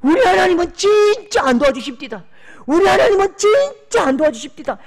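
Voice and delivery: high, loud, voice breaking with tears; loud weeping lament; tearful complaint. Retold or imitated. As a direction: cry it out to God in anguish. Pastor voicing a crying complaint.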